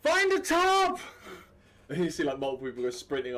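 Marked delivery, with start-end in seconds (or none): 0.0-1.0 loud, high-pitched holler; shouted order. Acted. Captain ordering the crowd below, shouted order. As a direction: shout it at full force, high.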